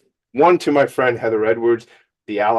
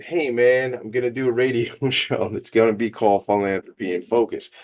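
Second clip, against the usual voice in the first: self-mocking, laughing. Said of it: "I laugh and I break my own chops".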